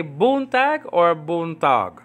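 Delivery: slow buntag twice, stressed at the beginning, then at the end; contrasting word stress. Shown as a demonstration. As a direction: offer buntag both ways, first syllable against last. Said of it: "so she stresses".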